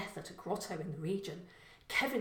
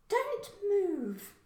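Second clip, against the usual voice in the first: much higher, louder female command; threatening woman; 13 semitones higher, 5 dB louder than usual. Acted. Killer neighbour ordering Kevin to stay still, menacing. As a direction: freeze him with a cold order.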